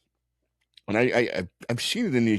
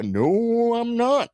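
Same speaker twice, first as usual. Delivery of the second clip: high, louder mock protest; emphatic denial; 13 semitones higher, 3 dB louder, much slower than usual. Retelling his own denial in the fight, high and loud. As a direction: fire back the denial. Retold denial in bar argument.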